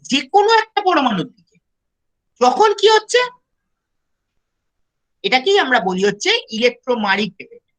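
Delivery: choppy voice breaking up online; cutting in and out on a bad connection; buffering stutter. Real, not acted. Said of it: "আপনার কথা কেটে কেটে যাচ্ছে".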